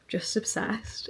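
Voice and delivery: breathy awed whisper. Real, not acted. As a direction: whisper it like a secret delight. Blissful admission about her ring.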